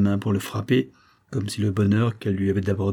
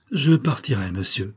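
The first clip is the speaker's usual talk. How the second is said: froidement. Acted. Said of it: "dit-il froidement".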